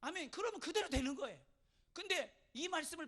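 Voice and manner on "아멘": high, loud burst of assent; emphatic amen. Shown as a demonstration. Believer receiving God's promise, answering loud and eager. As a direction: fire back a wholehearted amen. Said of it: "그럼 어떻게 돼?".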